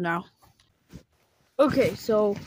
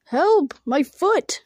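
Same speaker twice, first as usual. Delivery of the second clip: shout for help; 5 semitones higher, 3 dB louder, much slower than usual. Acted. Trapped, calling out.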